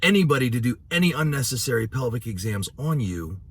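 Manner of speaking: imitating a doctor's hollow reassurance; mock provider promise. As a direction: play the provider swearing to protect her. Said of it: "Or you don't say".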